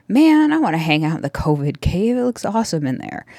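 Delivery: lightly voiced impressed husband; admiring husband. Host quotes her husband peeking into the covid cave, impressed.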